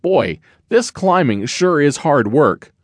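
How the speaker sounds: a small bear puffing as he climbs; hint of a tired little cub. Little Bear's voice, narrator reads.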